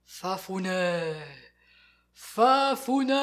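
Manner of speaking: low, slow calling voice; deep voice. Acted. Unseen voice calling Fafounet, deep and slow. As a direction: call his name low and eerie. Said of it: "il entend une voix grave".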